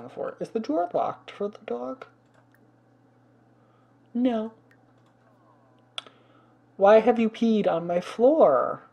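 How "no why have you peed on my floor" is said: scolding the dog. Real, not acted.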